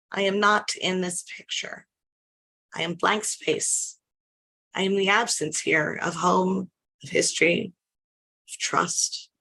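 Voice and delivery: measured, intense poetry performance; spoken word poem. Acted. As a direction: lean into each image like a slam poet.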